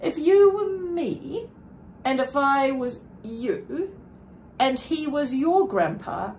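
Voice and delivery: lightly voiced little girl, rising to a firm challenge; a hint of a second-grader standing her ground; mildly voiced child, earnest then insistent; young girl. Sophia questions the clerk.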